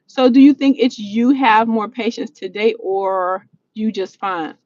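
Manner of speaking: same question read again, slowly; slow down and reread it carefully. Shown as a demonstration. Rereading a viewer's question to herself, slow careful reread.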